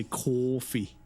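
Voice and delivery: "coffee" in a drawn-out Boston accent. Shown as a demonstration. Streamer teasing a viewer from near Boston, Boston accent. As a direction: say it like a Bostonian, slowly. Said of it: "so you have that Boston accent. You say".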